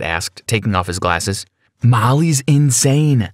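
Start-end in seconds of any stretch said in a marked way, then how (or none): 1.8-3.3 yelling. Acted. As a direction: yell it at the parents. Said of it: "I yelled at them".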